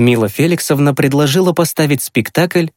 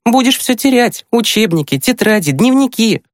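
put-on high girl's voice listing troubles; warning older sister; 10 semitones higher than usual. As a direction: pile up the warnings in a high, lively voice. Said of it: "предупредила брата Маша". (высокий голос сестры, перечисляет с предупреждением)

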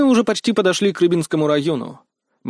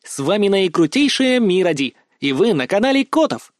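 higher, put-on video-host voice; affected blogger voice; 4 semitones higher than usual. A narrator's reading. Blogger introducing herself to her channel's viewers, affected. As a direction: ham up a channel intro in a distorted voice. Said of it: "Девушка опять начала коверкать голос".

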